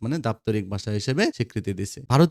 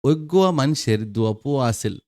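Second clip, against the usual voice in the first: lightly voiced Chittagong Bengali; Chittagong dialect; 3 semitones higher than usual. Shown as a demonstration. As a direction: demonstrate a line of Chittagong dialect. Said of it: "Chittagong অঞ্চলের আঞ্চলিক ভাষারীতি কেমন দেখো".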